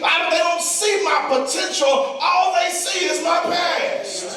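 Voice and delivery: high, driving preacher's lament; impassioned preaching plea. Acted. Voicing a struggling listener's lament.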